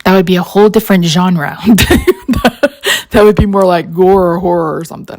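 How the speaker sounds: words bubbling with laughter; laughing. Real, not acted. Crafter joking that dangling feet would be horror, laughing. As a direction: laugh through the joke. Joking about gore genre.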